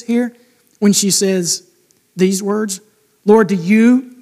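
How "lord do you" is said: jabbing. Retold or imitated.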